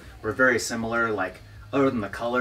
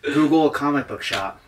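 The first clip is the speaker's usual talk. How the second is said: laughing; 4 semitones higher, 6 dB louder, slower than usual. Retold or imitated. Sarcastic punchline, laughing.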